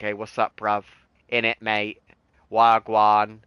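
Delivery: casual UK street slang accent; a touch of UK rap-style slang accent. Shown as a demonstration. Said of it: "your slang English".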